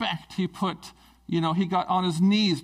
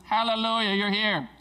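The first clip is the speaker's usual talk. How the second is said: raised, joyful exclamation; acted-out glad greeting; excited welcome; 5 semitones higher than usual. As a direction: welcome them with open delight. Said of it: "He's excited for us".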